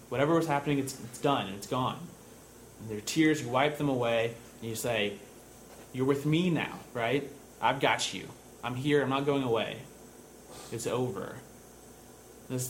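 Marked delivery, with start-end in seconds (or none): 0.1-2.0 retold soothing. Big brother calms toddler after bad dream, soothing. 5.9-11.3 quiet, protective reassurance; retold soothing. Big brother hugs crying toddler, soothing.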